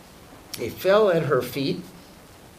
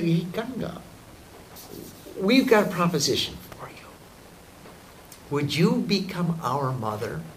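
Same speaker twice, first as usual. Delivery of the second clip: quick whispered pitch; sly whisper; 3 semitones higher than usual. Acted. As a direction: whisper the offer like a secret deal. Brothers propose a deal.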